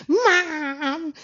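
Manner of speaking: put-on high, loud kid wailing for mom; mock a child's loud, whiny holler; exaggerated bawling-child call. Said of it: "You know how them kids do".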